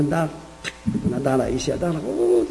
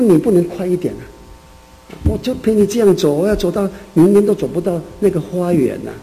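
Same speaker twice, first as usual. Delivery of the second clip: impatient complaining; 3 semitones higher than usual. Retold or imitated. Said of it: "他个性很急啊".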